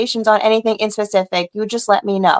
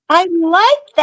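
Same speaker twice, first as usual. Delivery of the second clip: put-on Boston accent; 7 semitones higher than usual. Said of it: "With the Boston accent".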